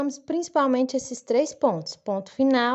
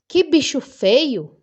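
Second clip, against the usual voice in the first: slow, loud exclamation on "Que bicho feio"; exclamatory intonation; 3 semitones higher, 7 dB louder, slower than usual. Shown as a demonstration. Teacher demonstrating an exclamation mark, exclamatory. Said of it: "eu dei uma entonação diferente".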